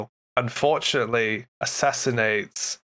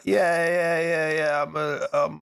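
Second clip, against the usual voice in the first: eager goblin; 4 semitones higher than usual. Retold or imitated. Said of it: "He's like".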